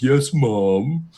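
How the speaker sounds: lightly sarcastic obedience; a hint of patronizing compliance in a put-on voice; Rianger. Imitating him humouring a bossy woman, mildly sarcastic. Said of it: "it's just him being sarcastic".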